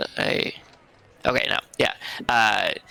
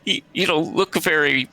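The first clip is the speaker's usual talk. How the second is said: raised, lightly voiced young dragon; sulky dragon voice; 6 semitones higher than usual. Game master voicing the sulking white dragon to the giant, mildly higher. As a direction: sniff out a mild put-down. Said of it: "The, the white dragon goes".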